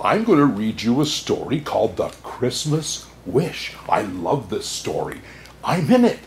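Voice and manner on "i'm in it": higher, louder proud aside; delighted. Acted. Santa telling children he is in the story, delighted. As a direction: brag playfully.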